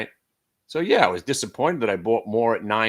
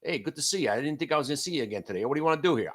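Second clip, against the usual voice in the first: playing the sellers' chat; 4 semitones higher, 3 dB quieter, much faster than usual. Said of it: "saying hello to his friend".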